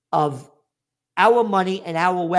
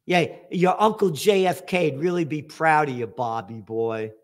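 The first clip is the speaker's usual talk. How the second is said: sarcastic. Real, not acted. Chiding a candidate about his uncle's pride, sarcastic. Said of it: "I say that sarcastically".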